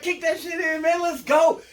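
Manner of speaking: high and loud, pumping up the crew; retold rallying shout; hype shout. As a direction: yell it like rallying your boys. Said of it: "I was like".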